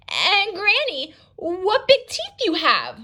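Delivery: she's scared now, say it slowly; nervous girl. Shown as a demonstration. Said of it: "she's getting nervous".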